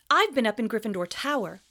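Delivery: insistent schoolboy; young Harry, defensive. Acted. Harry voiced in read-aloud.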